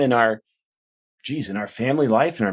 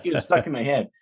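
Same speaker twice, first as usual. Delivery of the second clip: ordinary talk, nothing marked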